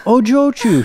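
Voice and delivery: high-pitched coaxing call; gentle appeal. A narrator's reading. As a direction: coax her with concern. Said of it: "as gently as he could".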